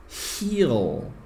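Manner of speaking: "he'll" squeezed into one syllable, like "heel"; contracted demo. Shown as a demonstration. Teacher contrasting "he'll" with "he will" for students. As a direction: model "he'll" right after the full form. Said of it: "presta atenção na minha pronúncia".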